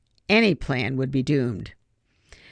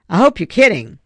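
incredulous; 4 semitones higher, 8 dB louder than usual. Acted. Ben's incredulous retort.

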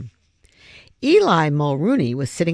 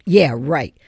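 louder, bitter furious retort; raging; 6 dB louder than usual. Acted. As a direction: spit it out in anger. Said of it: "she raged".

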